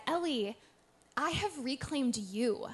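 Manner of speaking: understated tender reassurance; gentle reassurance. Retold or imitated. Retelling God's answer to her despair, gently reassuring. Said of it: "And so gently, he, he said".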